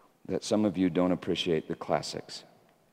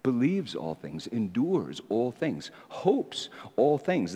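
scripture reading; 4 semitones higher, slower than usual. Shown as a demonstration. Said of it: "He wrote".

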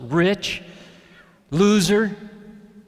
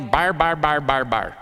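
mock foreign babble, bar bar bar; imitating babbling; 2 semitones lower, 3 dB louder than usual. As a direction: babble the syllables like unintelligible speech. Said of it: "what we would say babbling".

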